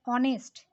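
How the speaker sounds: ऑनेस्ट begun on the vowel, H left silent. Shown as a demonstration. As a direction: say ऑनेस्ट with no H sound, opening straight on "o". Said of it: "एच का उच्चारण नहीं हो रहा है".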